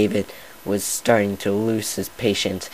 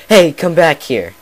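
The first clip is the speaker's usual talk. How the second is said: shout; 7 semitones higher, 9 dB louder than usual. Acted. David chasing the pony.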